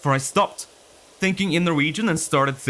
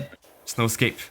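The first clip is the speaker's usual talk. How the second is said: mock villain; 5 semitones lower, 4 dB quieter than usual. Playacting menace.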